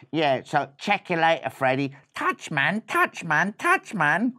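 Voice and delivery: lightly voiced street-slang mouse; casual swaggering sign-off; cool brother. Mouse brother saying goodbye to Freddy, cool.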